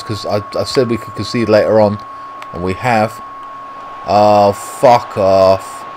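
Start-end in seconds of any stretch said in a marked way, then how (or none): 4.1-5.8 very slow, dragged-out "Oh, fuck off"; drawn-out disgust. Real, not acted. Gamer groaning at a conceded goal, very slow disgusted drag. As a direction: stretch every word in disbelief.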